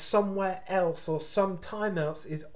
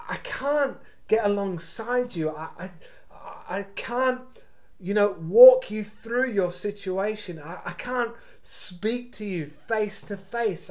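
earnest, slightly higher-pitched plea; desperate urging; 3 semitones higher than usual. Acted. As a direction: urge them as if pleading from afar, with mild desperation. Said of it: "the almost desperation in his words".

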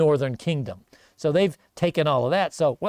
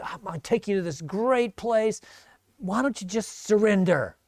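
calling out; 4 semitones higher than usual. Acted. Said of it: "he calls out to the people on the wall".

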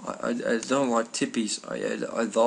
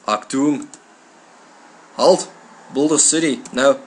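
loud, higher-pitched mock German commands; mock German accent; 4 semitones higher, 8 dB louder than usual. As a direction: bark orders in a comic German accent. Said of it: "they have a German accent".

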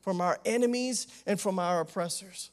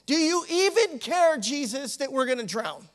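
panicked plea; 3 semitones higher than usual. Acted. Panicking disciples accuse sleeping Jesus.

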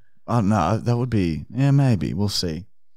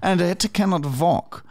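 Arnold Fine voice; 3 semitones higher than usual. Acted. Prank caller voice continues.

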